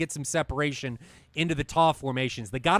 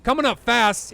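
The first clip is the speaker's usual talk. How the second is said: excited shout; 5 semitones higher, 6 dB louder than usual. Real, not acted. Missile hit, caster erupts.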